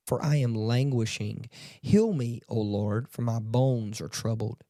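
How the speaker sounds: measured, solemn reading of the psalm; scripture reading. Acted. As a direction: read the verses like a prayer. Reads the psalm aloud.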